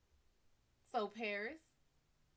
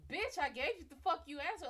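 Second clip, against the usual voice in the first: mock angry Apollo; 6 semitones higher, 3 dB louder than usual.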